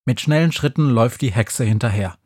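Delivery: ordinary delivery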